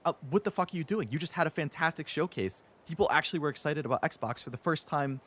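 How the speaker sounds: high, fast, incredulous outburst at Xbox; exasperated rant. Retold or imitated. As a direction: rant at them in disbelief, speeding up. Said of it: "and I'm like".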